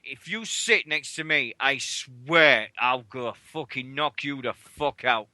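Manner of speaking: low, slow menacing warning; retold threat. Host retelling his thought about the singer, low threat. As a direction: threaten it slowly, word by word. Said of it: "I'm like".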